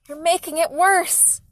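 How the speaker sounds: high, loud, stretched-out shout; forceful high-pitched reproach; yelling. A narrator's reading. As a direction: yell in desperate anger. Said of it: "Mom yelled".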